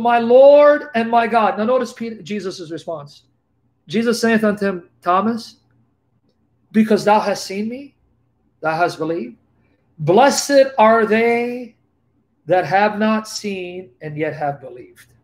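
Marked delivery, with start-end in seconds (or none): 0.0-1.6 slow and loud, full of awe; Thomas's awed cry. Acted. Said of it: "Thomas answered, said unto him". 3.9-15.1 scripture reading. Acted. Reads Jesus' words from scripture.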